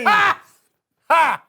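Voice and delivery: triumphant ha ha; gloating laugh. Acted. Gloats again.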